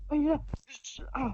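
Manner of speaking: scared horror game streamer. Real, not acted. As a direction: jump at the sight of the monster. Monster appears, panicked.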